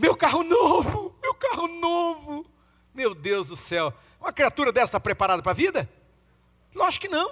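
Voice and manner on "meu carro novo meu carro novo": mock very slow, high, drawn-out wailing cry. Retelling a video where a man got out of his car, imitating a man yelling and crying. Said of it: "o cara começou a gritar e chorar".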